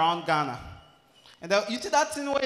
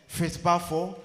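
usual speaking voice

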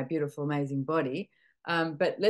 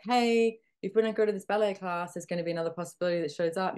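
bright, higher playful nudge; body's cheerful voice; 3 semitones higher than usual. Retold or imitated. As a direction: voice the body as an eager friend. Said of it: "your body's like".

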